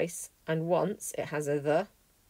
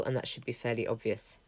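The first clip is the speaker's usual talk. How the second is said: whispered aside; 5 semitones lower, 7 dB quieter than usual. Real, not acted. Quiet aside to students.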